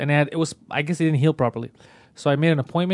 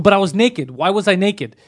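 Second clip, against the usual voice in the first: furious, retold; 4 semitones higher, 4 dB louder, slower than usual. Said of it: "now I'm furious".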